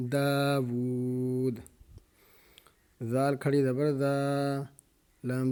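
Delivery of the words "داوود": داوود read slowly, stopping on a silent final d with no vowel; very slow waqf reading; stopping at the end. Shown as a demonstration. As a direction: pause form داوود, end clipped on the consonant. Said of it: "آگے وقف".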